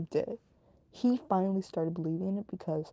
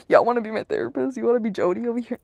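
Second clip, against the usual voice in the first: louder, teasing shout to viewers; playful loud call; 4 semitones higher, 9 dB louder, faster than usual. Real, not acted. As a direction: call out to chat with a laugh. Joking calling out to viewers.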